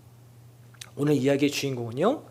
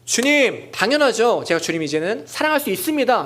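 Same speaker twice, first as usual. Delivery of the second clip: higher, louder, cocky assurance; mock confident answer; 5 semitones higher, 3 dB louder than usual. Peter wrongly imagined boasting to Jesus, confident. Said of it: "이렇게 자신 있게 말하는 게 아니에요".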